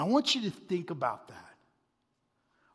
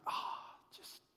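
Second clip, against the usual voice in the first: deflated; 10 semitones lower, 15 dB quieter, slower than usual. Retold or imitated. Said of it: "you're like".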